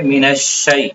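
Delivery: "من الشیء" slow, ya kept short, no stretch; don't draw out "الشیء"; short ya leen. Shown as a demonstration. Teacher showing the unstretched ya in "من الشیء". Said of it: "کیا پڑھیں گے؟".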